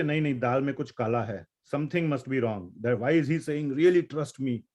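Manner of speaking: quick, doubting mutter; mock the doubter who smells a rat; suspicious listener. A doubting listener shrugs off someone who keeps saying trust me. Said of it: "then you say".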